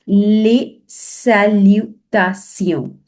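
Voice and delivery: les salutations, French "sion" ending, said slowly; French pronunciation. Shown as a demonstration. Teacher modelling les salutations for students in French. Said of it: "So whenever there is T I O N".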